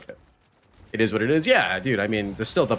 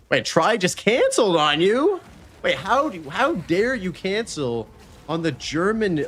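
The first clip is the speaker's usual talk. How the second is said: put-on high, slow, hammy German accent; mock outrage in a bad German accent; terrible German accent; 7 semitones higher than usual. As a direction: overblown fake German accent, drawn out and high. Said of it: "That's a terrible German accent".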